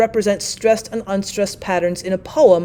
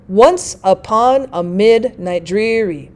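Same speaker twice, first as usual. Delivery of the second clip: slow falling beat, weight on "Once", the "on" of "upon", "mid" of "midnight", "drea" of "dreary"; trochaic stress; slower than usual. Shown as a demonstration. Teacher demonstrating the trochee with an example, trochaic stress. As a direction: scan it slowly, stressed then light, starting hard on "Once". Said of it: "that would be stressed followed by unstressed".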